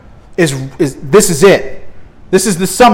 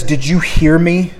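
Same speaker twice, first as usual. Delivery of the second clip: stern parent. Retold or imitated. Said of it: "gets that nice stern look on their face".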